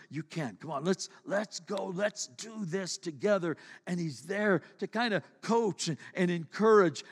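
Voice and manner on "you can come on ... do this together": softer reassuring father voice; gentle encouraging dad. Retold or imitated. Dad softly coaxing his discouraged son, reassuring. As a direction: coax the child kindly, quietly. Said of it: "the dad comes along and says".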